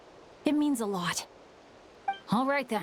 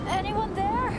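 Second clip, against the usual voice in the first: calling out; 10 semitones higher than usual. Acted. Alone, calling for anyone.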